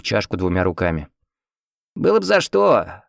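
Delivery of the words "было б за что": put-on high, dismissive old man; old man's snort. A narrator's reading. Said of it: "хмыкнул сопалатник". (высокое старческое хмыканье)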